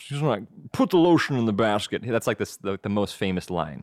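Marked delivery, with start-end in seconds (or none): 0.7-2.0 lightly imitated serial killer, weird voice; Buffalo Bill. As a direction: give the famous killer line its odd voice. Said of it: "he talks like this".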